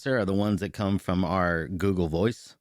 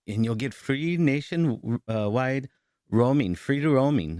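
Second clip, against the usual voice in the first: higher, slow, sugary sales lady; mock sales pitch; 5 semitones higher, 5 dB louder than usual. Imitating the cell phone saleswoman's slow, higher pitch. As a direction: parody a scripted phone saleswoman.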